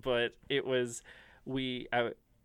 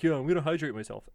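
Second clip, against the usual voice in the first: bro voice; faster than usual. Retold or imitated. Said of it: "in that bro voice".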